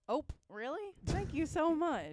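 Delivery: high, slow delighted thanks; surprised ope. Acted. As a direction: gush with surprise, drawn out. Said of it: "which example should I use".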